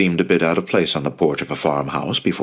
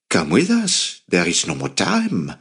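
urgent plea. Retold or imitated. Pleading with friends to flee.

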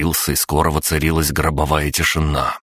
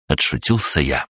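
ordinary delivery

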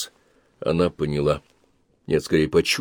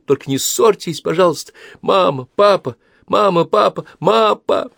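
put-on high, pleading tearful girl; little girl clinging to mother, sobbing; sobbing child; 11 semitones higher, 4 dB louder than usual. A narrator's reading. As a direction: sob and beg them not to fight. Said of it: "всхлипывая".

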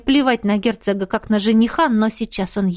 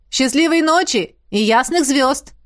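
exclaiming; 3 semitones higher than usual. Acted. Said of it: "воскликнул помощник Диего".

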